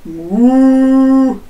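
loud long moo; cow moo. Shown as a demonstration. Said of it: "with your lowest voice".

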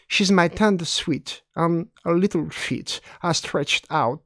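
put-on slow, lilting recitation in a French-accented English; poem reading. Teacher reading a Gertrude Stein poem to the class, slow poetic recitation. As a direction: savour each repeated sound of the verse.

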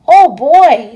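light up at the news; Stanley is thrilled at the invitation to California; excited boy. Acted.

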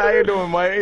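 mock British-Aussie mate greeting; imitated accent. Quoting Haji in the chat, imitated accent. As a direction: mimic a foreign mate's hello. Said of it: "he said".

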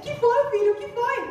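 eager, rising reply; finally called, answer eagerly; excited father. Retold or imitated. Father thrilled his daughter called him, eager. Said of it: "todo empolgado assim".

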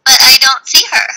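a touch of a sad letdown; disappointed. Shown as a demonstration. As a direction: sound let down at not finding her. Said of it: "I wanted you to see".

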